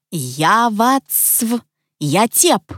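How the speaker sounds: "Я вацв, я теп" as broken nonsense syllables; incomprehensible gibberish. A narrator's reading. Mother says "Я вацв, я теп" behind the wall, unintelligibly. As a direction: say "Я вацв, я теп" like garbled reversed speech. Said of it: "произнесла что-то непонятное за стенкой".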